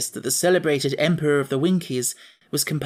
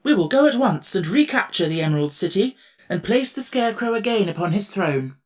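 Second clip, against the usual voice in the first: higher, louder determined tin emperor; rally your friend; resolute emperor; 5 semitones higher, 3 dB louder than usual. Acted. Emperor promising to retake the city, resolute.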